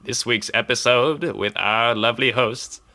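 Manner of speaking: slow, drawn-out arena announcer; Legend of Korra announcer voice. Pretend. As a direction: announce it slowly like a tournament host. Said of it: "let's just do an episode in that voice".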